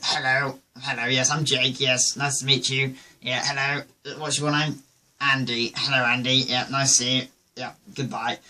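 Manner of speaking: lightly mocked posh English party greeting; mock-posh English small talk; posh accent. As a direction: imitate your tipsy, upper-class self. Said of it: "I turn posh".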